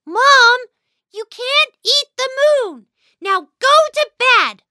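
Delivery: high, loud stern telling-off; stern scolding. Acted. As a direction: scold mom like a strict parent. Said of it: "With a straight and serious face".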